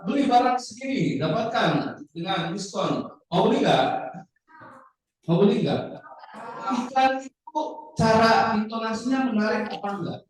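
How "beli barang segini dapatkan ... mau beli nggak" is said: advertisement pitch. Acted. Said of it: "Iklan A".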